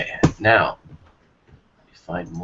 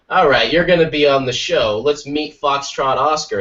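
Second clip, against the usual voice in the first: mock show host; 4 semitones higher, 3 dB louder than usual. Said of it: "it's just like".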